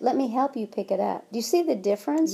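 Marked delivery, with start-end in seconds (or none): 0.0-1.3 helpful offer. Shown as a demonstration. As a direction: offer help gently to the child. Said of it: "where if you said".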